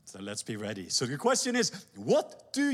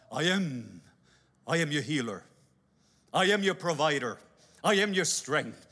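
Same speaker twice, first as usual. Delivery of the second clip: lower, measured declarations; voice of God; 3 semitones lower than usual. Acted. God declaring his names, lower and measured. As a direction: proclaim each I am with authority.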